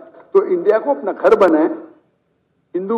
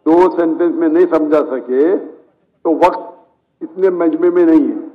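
firm interruption; 3 semitones lower than usual. Real, not acted. Cutting off a questioner in the crowd, firm and slow. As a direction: take the floor back firmly, slowly.

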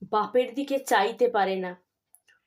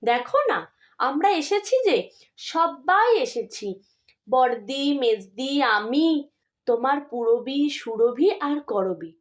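gentle, affectionate pleading with mother, a little higher; coaxing tenderly; 3 semitones higher than usual. Acted. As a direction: soothe a sick mother like a child. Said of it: "আদরের সুরে বলে".

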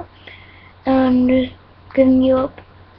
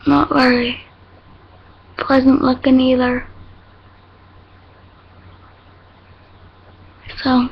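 fingers stretching lips. Real, not acted. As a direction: mouth pulled wide. Seen 1: Fingers pull both lip corners wide throughout the words, showing teeth.

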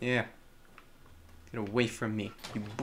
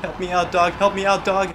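shouting for help; 5 semitones higher, 11 dB louder than usual. Real, not acted. Calling for help.

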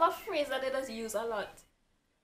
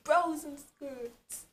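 put-on Jamaican accent; 4 semitones higher, much slower than usual.

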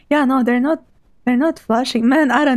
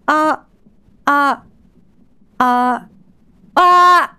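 short test "uh" bursts, building louder; test shouts; 4 dB louder, much slower than usual. Shown as a demonstration. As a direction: fire off short voice bursts, the last one loudest. Testing microphone threshold with shouts.

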